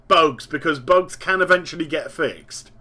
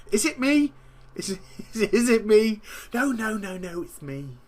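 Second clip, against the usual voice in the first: laughing self-mockery; 6 semitones higher, 4 dB quieter than usual. Mock self-doubt joke, laughing.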